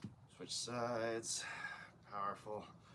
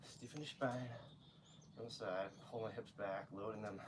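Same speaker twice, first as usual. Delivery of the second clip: soft, unprojected coaching voice; talking low; 6 dB quieter than usual. Real, not acted. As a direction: coach quietly, without projecting to the mic. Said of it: "I'm talking low".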